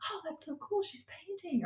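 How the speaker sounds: chirpy impressed onlooker; imagined onlookers. Retold or imitated. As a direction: onlookers at the window, lightly voiced. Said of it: "I think they're like".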